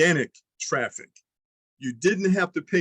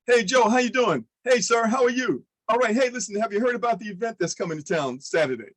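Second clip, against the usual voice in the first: friendly pitch demo; 6 semitones higher than usual. Shown as a demonstration. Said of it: "That's what we're doing right here".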